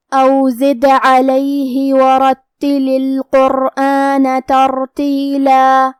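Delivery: slow, drawn-out tajweed chant; measured Quran recitation; Quranic recitation. Shown as a demonstration. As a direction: recite each letter slowly with full tajweed. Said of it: "recites verse after explaining".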